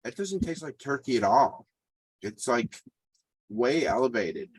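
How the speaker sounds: talking with a mouth full; words around a bite of burger. Real, not acted. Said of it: "I have to talk with my fat mouth full".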